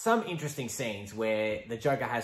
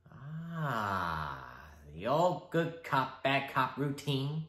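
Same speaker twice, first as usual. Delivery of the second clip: higher, slow, mocking Joker; 4 semitones higher, much slower than usual. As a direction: sneer at the routine. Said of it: "the Joker".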